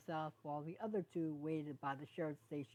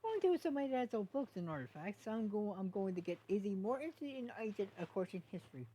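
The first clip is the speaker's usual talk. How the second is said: higher, eager and bright about the plan; light up talking about dad's books; more enthusiastic; 5 semitones higher than usual. Acted. Sunny telling Hitch her plans, higher and eager. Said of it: "she became more enthusiastic".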